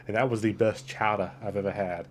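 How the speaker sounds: lightly put-on Boston accent, dropping the r; a touch of Boston in the vowels. Real, not acted. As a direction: slip into a Boston accent on chowder. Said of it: "I changed my voice to Boston".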